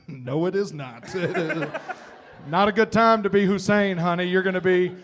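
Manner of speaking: loud, laughing Southern mom putting her foot down; a customs mom firmly renaming the boy; sweet Southern mom. Retold or imitated. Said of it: "sweet Southern woman".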